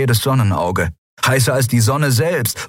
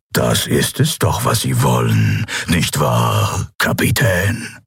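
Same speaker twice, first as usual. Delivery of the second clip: measured, imperious offer, dropping low at the end; coaxing emperor; 3 semitones lower than usual. Acted. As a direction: tempt the prisoner with unhurried menace. Figur des Kaisers. (lockender Kaiser, gemessen, am Ende tief)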